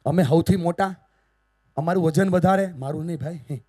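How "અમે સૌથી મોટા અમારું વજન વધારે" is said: loud, proud boast by the thumb; thumb bragging loudly to the other fingers. Acted. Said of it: "અંગૂઠાએ ઊંચો અવાજ કરીને કીધું".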